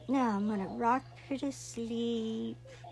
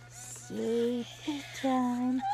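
slow, soft sleepy-time coo; soothing bedtime voice; 4 dB quieter, much slower than usual. Acted. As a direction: lull her gently, slowly. Putting doll to sleep.

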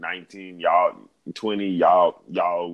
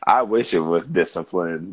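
whispering; 5 dB louder than usual. Real, not acted. Confessing, unvoiced.

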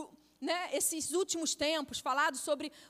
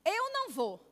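flat refusal; 5 semitones higher than usual. Retold or imitated. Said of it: "Desse jeito".

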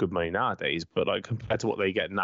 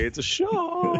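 mock serious; much slower than usual. Joking about halfway-line shot.

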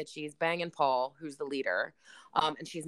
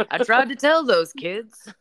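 slow ominous raspy drawl; 6 semitones higher, 11 dB louder than usual. Retold or imitated. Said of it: "Crazy Jenny".

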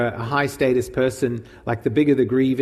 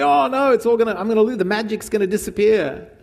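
higher-pitched, fretting "oh no"; mock panic; 8 semitones higher than usual. Imagining the healed woman fearing it will be undone, panicked. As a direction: voice her rising alarm, pitched up.

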